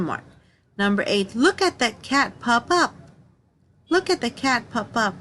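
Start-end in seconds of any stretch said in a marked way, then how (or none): 1.4-5.1 excited exclamation. Shown as a demonstration. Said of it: "we say this with excitement".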